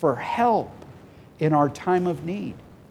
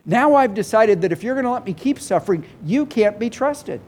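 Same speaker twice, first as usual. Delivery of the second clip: voicing the fed-up believer; 4 semitones higher than usual. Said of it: "we come to a point where we go".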